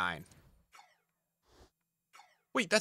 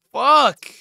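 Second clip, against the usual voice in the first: angry curse; 8 semitones higher, 12 dB louder than usual. Real, not acted. Swearing at the player price.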